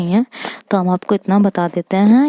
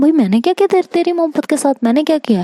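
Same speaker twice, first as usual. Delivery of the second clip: high, much higher pitched outrage; indignant protest; 8 semitones higher, much faster than usual. Retold or imitated. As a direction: defend yourself in disbelief. Friend blames her, she protests. (ऊँची आवाज़ में हैरान विरोध)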